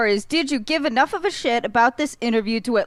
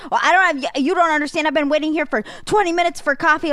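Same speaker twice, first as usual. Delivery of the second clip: higher, hammed-up indignant older woman; mock indignant boomer; 7 semitones higher, 3 dB louder, faster than usual. Retelling a coffee-shop fight, imitating the boomer's higher indignant complaint. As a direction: play her as an outraged customer, half-mocking. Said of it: "and she's like".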